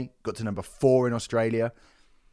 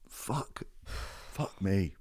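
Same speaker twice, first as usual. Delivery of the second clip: stunned swearing; 3 semitones lower, 9 dB quieter, much slower than usual. Real, not acted. Stunned by chart success.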